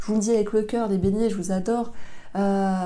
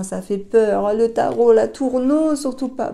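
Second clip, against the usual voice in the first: rising, louder mock protest; hammed-up alarmed objection; mock dread; 2 semitones higher, 5 dB louder than usual. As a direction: play a worried client refusing, pitch climbing. Voices viewers dreading the Tower card.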